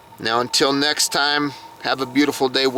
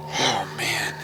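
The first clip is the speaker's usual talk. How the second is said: getting emotional; 4 semitones lower, 6 dB quieter than usual. Real, not acted. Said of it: "I'm getting emotional".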